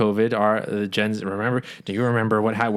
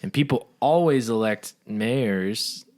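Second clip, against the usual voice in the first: slow, drawn-out mock quote; mock self-assurance; 2 semitones higher, slower than usual. Mayor reasoning why people would elect him, mock self-assured. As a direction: stretch the words as a mockingly confident mayor.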